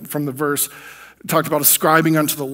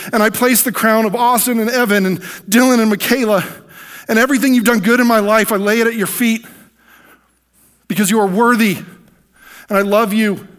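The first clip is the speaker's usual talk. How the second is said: fervent prayer; 5 semitones higher, 4 dB louder than usual. Retold or imitated. Fervent prayer of worship retold.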